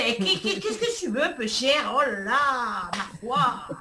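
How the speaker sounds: put-on a sing-song southern French accent. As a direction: ham up a Provençal local. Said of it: "je reprends mon accent du sud".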